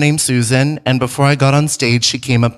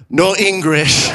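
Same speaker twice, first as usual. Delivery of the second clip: mock deadpan; 3 semitones higher, slower than usual. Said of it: "here is how that interaction went".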